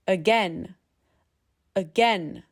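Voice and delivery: AGAIN as uh-GEN, first vowel neutral; Again with a short weak uh to start; initial schwa. Shown as a demonstration. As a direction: reduce the A of Again and stress the second syllable. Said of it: "That first letter A, schwa".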